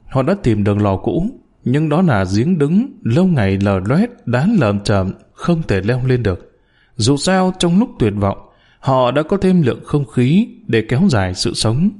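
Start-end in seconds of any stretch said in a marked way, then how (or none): none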